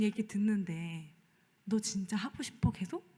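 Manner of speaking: softly voiced gentle God; quiet questioning. God quietly questioning the pastor's heart, gentle. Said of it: "조용히 물어보시는 것 같아요".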